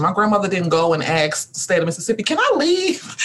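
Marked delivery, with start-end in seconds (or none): 2.2-3.2 mock timid asking. Grandmother asking state permission, mocked.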